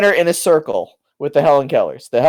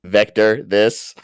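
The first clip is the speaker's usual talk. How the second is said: robot voice; 6 semitones lower, much slower than usual. Pretend. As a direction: lower flat robot voice. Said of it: "in the robotic voice".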